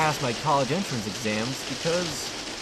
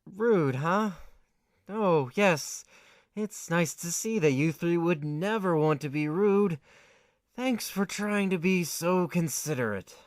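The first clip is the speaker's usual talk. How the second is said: sarcastic reply; slower than usual. Acted.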